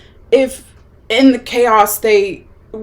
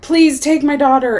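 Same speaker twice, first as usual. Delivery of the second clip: higher-pitched, mildly frantic imitation of begging; retold desperate pleading; 5 semitones higher than usual. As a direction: plead like a mother, without really screaming. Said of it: "she's crying and screaming".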